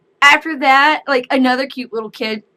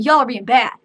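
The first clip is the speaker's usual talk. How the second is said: scolding mom; 7 dB louder than usual. Retold or imitated. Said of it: "she keeps telling".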